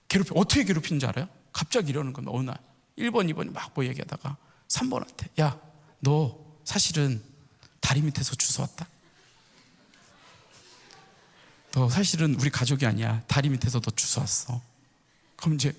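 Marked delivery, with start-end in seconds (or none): 5.4-14.6 low, deliberate big-brother teasing; deadpan teasing. Acted. Older brothers telling the youngest he was found under a bridge, deadpan teasing. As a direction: break fake bad news in a lowered voice. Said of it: "막 계속 놀리는 거야".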